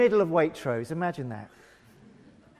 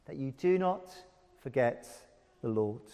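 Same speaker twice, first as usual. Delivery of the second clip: dropping much softer on forget the Lord; hushed warning; 5 semitones lower, 8 dB quieter than usual. Acted. Preacher reading the warning verse, suddenly hushed. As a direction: lean in and warn them quietly. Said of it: "verse eleven".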